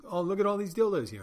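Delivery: a playful, high, excited customer voice; mock delight. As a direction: gush over the shelves like a giddy shopper. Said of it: "You know, there's".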